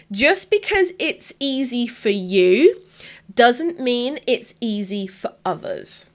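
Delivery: slow, deliberate key message; emphatic, to imprint. Real, not acted. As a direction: spell it out slowly so it sticks. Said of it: "I want you to, like, imprint it".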